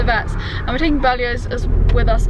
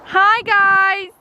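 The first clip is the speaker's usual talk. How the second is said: high pet-talk voice; 8 semitones higher, 3 dB louder, slower than usual. Real, not acted. Greeting cows in high pet voice.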